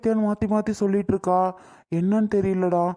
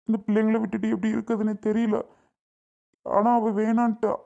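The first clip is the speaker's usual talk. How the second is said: put-on tearful worry for the children; helpless father talking through tears; crying; 3 semitones higher than usual. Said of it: "அழுதிட்டு இருக்கிறது". (குழந்தைகளுக்காக அழுதுகொண்டே)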